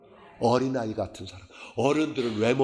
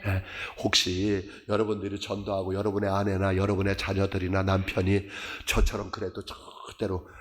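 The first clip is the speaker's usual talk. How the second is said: low, calm pastoral comfort; gentle reassurance; 4 semitones lower than usual. Real, not acted. Preacher comforts worried family members. (낮고 차분하게 달래듯)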